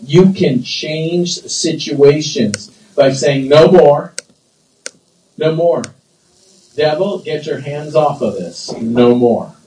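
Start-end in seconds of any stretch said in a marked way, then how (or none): 3.5-9.5 firm rebuke to the devil; authoritative prayer of refusal; strong command. Acted. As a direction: forbid it with spoken authority. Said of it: "that's kinda strong".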